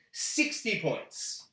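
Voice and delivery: slow breathy whisper of the score. Acted. Awarding the score in a slow dramatic whisper. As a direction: hush it out slowly, like a secret.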